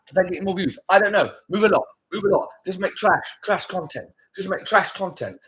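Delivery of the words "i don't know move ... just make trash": exasperated. Real, not acted. Exasperated rant at creators.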